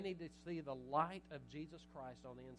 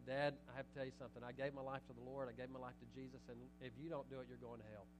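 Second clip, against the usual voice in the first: blunt warning; 4 semitones lower, 5 dB quieter, faster than usual. Retold or imitated. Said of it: "That's not ad-, admonition".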